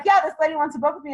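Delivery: confident. Shown as a demonstration. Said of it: "when your attitude is like".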